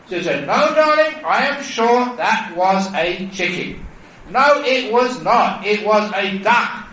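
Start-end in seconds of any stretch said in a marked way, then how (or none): 0.5-3.8 high, loud, stretched-out insistence; emphatic insisting. Acted. Wife correcting her darling about the chicken, emphatic insisting. 4.3-6.9 heated contradiction. Acted. Husband flatly denying it was a chicken, heated contradiction.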